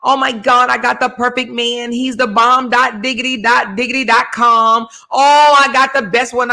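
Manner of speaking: high, excited bragging; giddy gushing. Retold or imitated. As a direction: gush over the perfect man. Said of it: "she was like".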